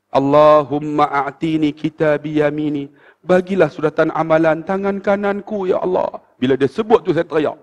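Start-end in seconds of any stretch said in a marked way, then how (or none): 0.1-2.9 slow, measured prayer recitation; murmured prayer. Retold or imitated. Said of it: "dia main bisik kat telinga". 3.2-6.2 restrained, even prayer recitation; understated retold supplication; murmured prayer. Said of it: "dia main bisik kat telinga".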